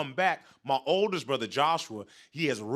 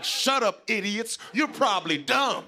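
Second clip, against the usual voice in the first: higher-pitched mock insult; roasting the audience; 5 semitones higher, slower than usual. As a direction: hurl a feeble insult at the crowd. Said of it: "I started roasting the whole audience".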